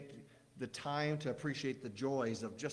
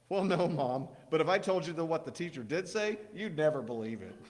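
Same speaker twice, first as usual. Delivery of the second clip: put-on higher, eager kid storytelling; little boy voice; 3 semitones higher, 6 dB louder than usual. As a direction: tell it like an excited child. Joey answers mom.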